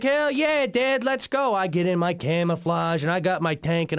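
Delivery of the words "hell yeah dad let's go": put-on eager kid's shout, pitched way up; excited kid. Boy answering his dad's offer to play army, thrilled. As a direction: jump at the chance like an eight-year-old.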